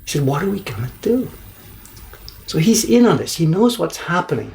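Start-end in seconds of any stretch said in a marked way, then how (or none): 0.2-1.3 resigned shrug. Retold or imitated. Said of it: "he shrugs his shoulders".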